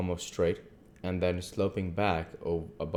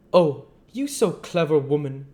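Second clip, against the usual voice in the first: higher, louder voice for the earnest foreign doctor; earnest old doctor; 9 semitones higher, 8 dB louder than usual. Acted. The doctor to Mina, explaining his visit, grave and courteous.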